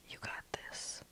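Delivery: lightly muttered under the breath; a mild mutter, psyching himself up; muttered pep talk. Retold or imitated. Jay muttering to himself before sending the line. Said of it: "I muttered".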